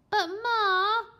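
put-on high, loud pleading kid; whining protest. A narrator's reading. Boy protesting.

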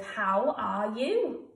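drawn out slowly while writing; slow dictation. Shown as a demonstration. Teacher modelling a letter opening for children, slow. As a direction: stretch each word as you write it. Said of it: "I might start mine with".

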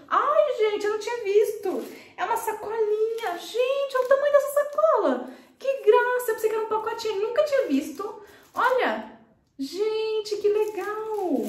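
high, thrilled gushing over the bag; delighted, pitch way up; excited squeal. Real, not acted. Excited unboxing of gift from student.

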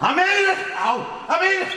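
pained yelp. Acted. Pained yelling reply.

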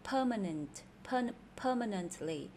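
"Permanent, permanently" stressed on PER; first-syllable stress. Shown as a demonstration. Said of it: "nhấn âm đầu cho nên khác". (nhấn âm đầu trong "Permanent, permanently")

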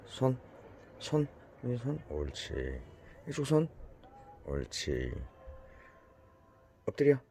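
firm dog commands. Real, not acted. Training dog, raised commands.

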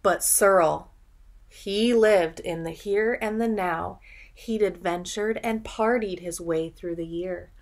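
put-on lilting read-aloud rhythm for children; storybook narration. A narrator's reading. Teacher reading a picture book to children, lilting. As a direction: read the rhyme like a bedtime story.

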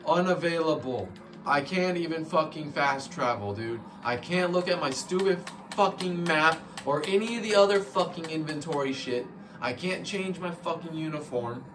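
real gamer rage, shouting; angry rant. Real, not acted. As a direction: blow up at the locked menus. Raging at the game's locked menus.

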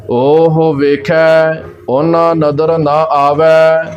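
slow, measured Gurbani recitation with held vowels; scripture recitation. Shown as a demonstration. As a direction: recite it slowly, drawing out each word. (ਠਹਿਰ ਕੇ ਗੁਰਬਾਣੀ ਪਾਠ)

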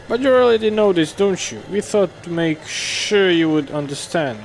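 a light mother voice, lifted high; voicing mom. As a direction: play the mother gently scolding her son. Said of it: "that's my mom speaking".

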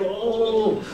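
badly faked smothered moan; mock pillow-choking groan. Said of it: "choking yourself with a pillow".

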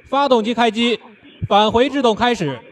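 loudspeaker announcement. Real, not acted. Loudspeaker relay of command.

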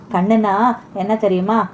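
slow and tender, கண்ணுனா drawn out gently. Acted. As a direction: lovingly lean on கண்ணுனா, unhurried. Tender answer to Rukmani. (மெதுவான, அன்பான குரலில் கண்ணுனா)

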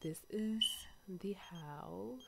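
soft unvoiced whisper. Real, not acted. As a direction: breathe it out as a whisper. Touring the house quietly.

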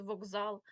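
«вокзал» with к voiced to ґ, воґзал; pronounced as heard. Shown as a demonstration. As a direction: let the к in «вокзал» turn into ґ. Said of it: "ви просто будете чути". (вимова з дзвінким ґ: «воґзал»)

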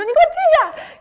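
high, loud furious yell; angry shout. Retold or imitated. Scared girl yelling at the haunted house actor, furious shout. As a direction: bark the order like a scared kid hiding it with anger. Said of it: "然后我大喊".

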